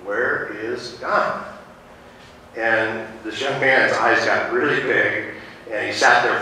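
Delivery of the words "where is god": slow, stern question; lightly voiced stern pastor, drawn out; sterner pastor. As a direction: ask it slowly and sternly. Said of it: "in a more stern voice".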